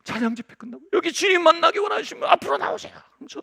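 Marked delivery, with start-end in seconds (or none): 0.9-3.0 calling to the congregation. Retold or imitated. Calling worshippers forward at a meeting.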